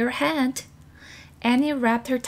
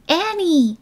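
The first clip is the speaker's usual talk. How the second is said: raised call, a bit louder; a little louder; 9 semitones higher, 6 dB louder than usual. A narrator's reading. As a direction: call her name louder. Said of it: "he said a little louder".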